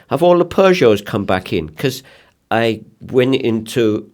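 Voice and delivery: deliberately bad Scandinavian accent; Toppy, Scandinavian accent. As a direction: put on a clumsy Scandinavian accent. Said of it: "I'll try and do a crappy Scandinavian accent".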